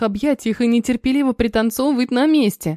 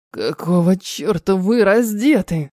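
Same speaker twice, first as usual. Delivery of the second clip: гневный рёв; 3 semitones lower, slower than usual. Acted. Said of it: "Нечеловеческий рёв разгневанного орка".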